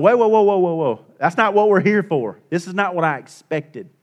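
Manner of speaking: startled objection. Retold or imitated. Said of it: "They're like".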